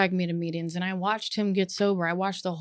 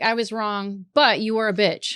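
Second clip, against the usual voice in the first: non-apology; 4 dB louder than usual. Retold or imitated. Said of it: "there's no, like".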